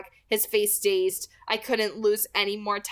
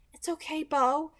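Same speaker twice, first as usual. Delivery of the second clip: reassuring promise; 7 semitones higher than usual. A narrator's reading. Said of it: "she promised".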